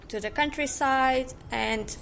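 hesitant, searching for the English word; translating in head. Real, not acted. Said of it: "I don't know the word in English".

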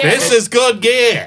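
a laugh breaking up each word, slowly; can barely hold the laugh in; laughing while talking. Real, not acted. Laughing at his own joke to the other guests.

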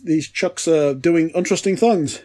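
slow, hammed-up cliched accent; slow delivery in a mock cliched accent; Tony Martin accent. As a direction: lightly put on a cliched accent, drawn out. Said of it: "like, a cliched Tony Martin accent".

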